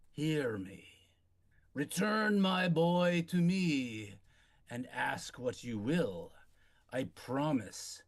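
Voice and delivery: slow, weighty voice of an ancient lord; ancient commanding voice. Acted. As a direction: speak with echoing ancient power. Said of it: "his voice echoes with ancient power".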